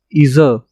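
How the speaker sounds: इजर with a buzzing zh in the middle; zh sound. Shown as a demonstration. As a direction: buzz the zh of इजर. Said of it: "जी का sound आ रहा है". (इजर में ज़्ह ध्वनि)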